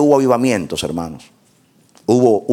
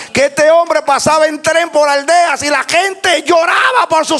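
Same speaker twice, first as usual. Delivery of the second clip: full-force preaching. Real, not acted. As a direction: proclaim it to the whole congregation, stretching key words. (predicación a pleno pulmón)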